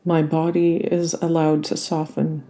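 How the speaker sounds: unhurried yoga nidra guidance with long pauses; calm body-scan meditation voice; guided relaxation. Real, not acted. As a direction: guide them gently into rest, leaving space between phrases.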